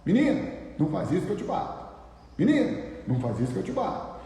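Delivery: quick mock warning to a child; imitating a parent's threat. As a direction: rattle off a parent's threat, fast. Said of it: "você disser pro seu filho assim".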